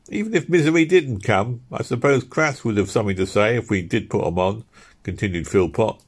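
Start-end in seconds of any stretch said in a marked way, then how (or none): 0.1-4.6 lightly voiced labourer moaning about the cold; Philpot's voice. Philpot grumbling to his mates about the cold, raised voice.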